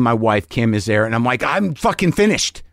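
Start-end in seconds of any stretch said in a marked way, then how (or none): 1.4-2.6 retold despair. Comic to partner after hanging up, retold despair. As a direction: act out being doomed, drawing the words out.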